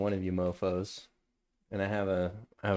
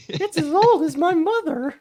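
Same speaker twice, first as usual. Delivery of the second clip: high-pitched laughing line; 8 dB louder than usual. Real, not acted. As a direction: laugh through the words. Laughing at the old onion.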